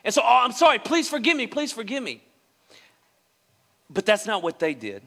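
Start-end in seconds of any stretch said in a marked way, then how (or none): 0.0-2.2 mock apology. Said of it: "It is just".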